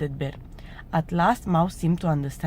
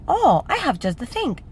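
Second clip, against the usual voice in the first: high little mouse voice; eager mouse; 9 semitones higher, faster than usual. A narrator's reading. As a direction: offer help eagerly as a mouse. Mouse eagerly offers pen.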